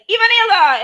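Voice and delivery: loud high playful call. Retold or imitated. Playful call to a friend, loud and high. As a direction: sing out the name loudly.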